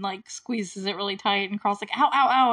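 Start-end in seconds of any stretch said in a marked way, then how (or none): 2.0-2.5 mock cries of pain, higher and louder; half-laughing mock ow-ow-ow; retold pain yelps. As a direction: play-act a crushed hand lightly. Retold hand squeezed really tight.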